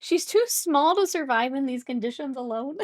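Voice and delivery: mock-dramatic plea. Passenger fearing for cake left alone, mock-dramatic plea. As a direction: plead with playful melodrama.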